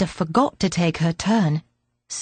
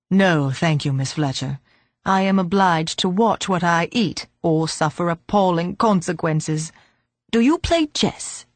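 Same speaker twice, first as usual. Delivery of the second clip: put-on old man voice; 3 semitones lower than usual.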